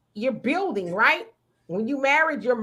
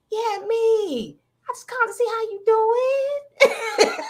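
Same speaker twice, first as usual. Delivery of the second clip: higher, giggling sing-song; giggly put-on voice; 8 semitones higher than usual. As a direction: croon it through a giggle.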